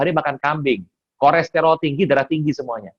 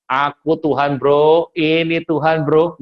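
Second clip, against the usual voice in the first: mock casual God; 3 semitones higher, 5 dB louder, slower than usual. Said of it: "Nggak pernah loh Tuhan bilang gini".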